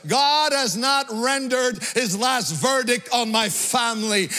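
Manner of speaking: rising, high-pitched declaration of faith; impassioned preaching. Real, not acted. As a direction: proclaim it to rouse the congregation. Preacher builds to a climax.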